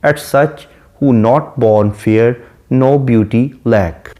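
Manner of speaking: slow, measured recitation of the verse; reading the poem. Shown as a demonstration. Teacher reciting the sonnet line slowly to students. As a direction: read the line out slowly to the class.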